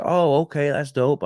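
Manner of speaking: upbeat retold surprise; impressed reaction. His reaction to a Marine's name.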